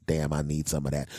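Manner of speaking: low, appreciative aside; admiring desire. Shown as a demonstration. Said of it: "Be thinking".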